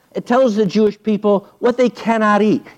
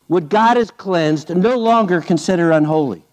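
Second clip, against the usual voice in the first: voice of God; 3 semitones lower than usual. Retold or imitated. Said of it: "And a voice came to him a second time".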